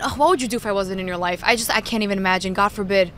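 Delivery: quick, lightly acted maternal scolding; mad mother. Daughter imitating mother's guilt trip, mild mock anger. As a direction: rattle it off like an exasperated mother. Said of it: "best interpretation of your mad mother".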